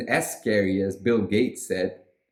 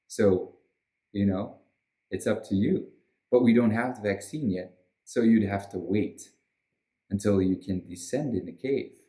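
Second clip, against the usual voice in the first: lightly voiced lecturing official, a touch low; Bill Gates; 3 semitones lower than usual. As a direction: mildly play a measured authority giving a warning. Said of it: "Bill Gates personally coming there and saying".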